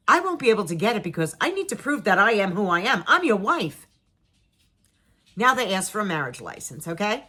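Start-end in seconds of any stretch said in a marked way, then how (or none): 0.1-3.9 exasperated pleading. Retold or imitated. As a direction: insist harder as you make the case. Acted argument with husband.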